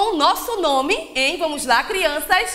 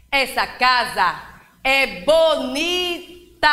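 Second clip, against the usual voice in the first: slow, sing-song poem reading with long pauses; teacher reading a rhyme aloud to a class; poem for children; 2 semitones lower than usual. Acted. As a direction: recite it to little ones, savouring each rhyme.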